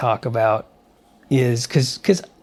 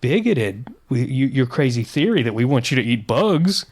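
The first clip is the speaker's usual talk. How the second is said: mocking indignant media; 4 semitones lower than usual. Host mimics media scolding bug critics with mock outrage. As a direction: sneer it like a scolding pundit.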